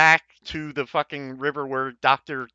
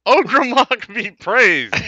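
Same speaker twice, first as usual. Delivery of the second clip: solemn passphrase; 7 semitones higher, 8 dB louder, slower than usual. Acted. Giving passphrase at the door.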